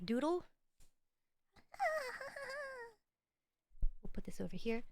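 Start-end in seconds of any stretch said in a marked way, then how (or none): 1.7-2.9 high, soft staccato laugh; high giggle. Real, not acted. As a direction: let out a light, high-pitched giggle. Wordless sound after thanks.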